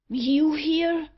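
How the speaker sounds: surprised cry. A narrator's reading. Auriol startled by the stranger's appearance, surprised. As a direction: jolt up in surprise. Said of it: "cried Auriol".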